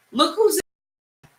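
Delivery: high, slow, wary "look who's in"; alarmed realization. Retold or imitated. David realizing he's in enemy hands, high and drawn out. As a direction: draw it out, suddenly on guard. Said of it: "now you start thinking".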